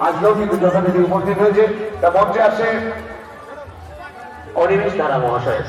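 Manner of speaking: announcing over a PA system; echoing festival loudspeaker. Real, not acted. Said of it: "আমি বারবার মাইকে ঘোষণা করছি".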